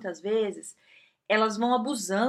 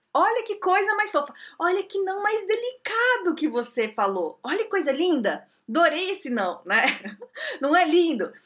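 gushing delight; 7 semitones higher than usual. Real, not acted. Gushing over the polite no.

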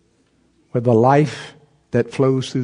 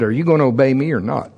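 stern God voice. Retold or imitated. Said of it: "He said it this way".

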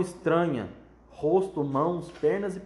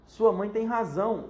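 slow, loud, raised roar of a father; mock roar of an angry father; 6 semitones higher, 4 dB louder than usual. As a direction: bellow it at her. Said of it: "urrou o senhor Chataclete".

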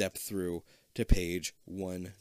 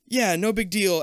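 fake cool; 9 semitones higher, 7 dB louder than usual. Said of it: "Abby tries to sound cool".

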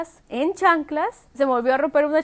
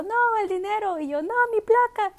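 higher frantic cries; frantic high-pitched dithering; 8 semitones higher than usual. Retold or imitated. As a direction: flip between two panics. Torn between money and plate.

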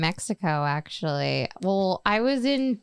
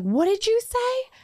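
high confused question; 14 semitones higher than usual. Retold or imitated. Officer asking again.

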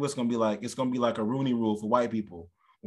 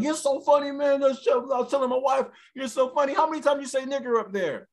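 high-pitched, enthusiastic white-guy impression; older white fan; 11 semitones higher than usual. Older white man complimenting the comic offstage, gushing. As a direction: gush like an oblivious older fan. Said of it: "It's an older white dude".

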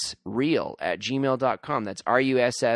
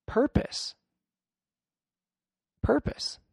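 whispered; 13 semitones higher, slower than usual. Acted. Dramatic whispered word.

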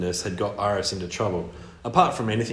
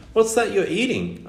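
albatross voice; 10 semitones higher than usual. Acted. Albatross character voiced in story.

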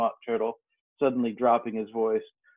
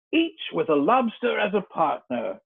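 higher-pitched interjection; mild cry; 7 semitones higher than usual. A narrator's reading. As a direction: chime in high, without shouting. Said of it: "cried the Griffin".

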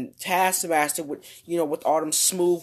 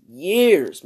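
"Years" louder, falling away; emphatic complaint; 2 semitones higher, 7 dB louder than usual. Pretend. Host lamenting the long wait for her movie, emphatic. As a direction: hit "Years" hard as a repeat.

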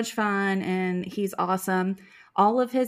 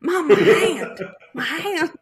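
put-on child's Southern drawl; 6 semitones higher, 7 dB louder, slower than usual. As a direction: hand drawn out, a Southern kid's drawl. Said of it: "a real slow Southern drawl".

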